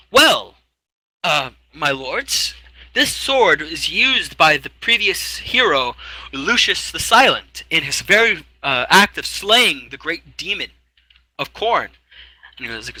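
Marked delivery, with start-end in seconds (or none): 0.1-11.9 much higher, slow fussy clerk; high fussy clerk reading out. Acted. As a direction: play a prim little scribe. Clerk explains slowly.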